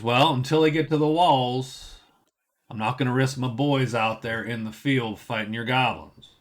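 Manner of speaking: lazy, lightly done Southern drawl as the captain; a hint of a Southern drawl, laid back and unbothered; crappy Southern drawl. Lazy guard captain brushing off the players, light Southern drawl. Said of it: "pull out the Southern drawl".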